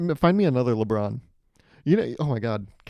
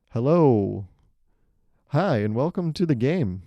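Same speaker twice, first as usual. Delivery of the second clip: bright game host welcome; host greeting; 4 dB louder, slower than usual. Shown as a demonstration. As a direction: greet the players like a show host. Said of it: "that's how you start a game".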